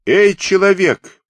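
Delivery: loud, high, drawn-out hail; shouting. A narrator's reading. Ataman running up to the stranger, shouting. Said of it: "крикнул Епифан Радилов".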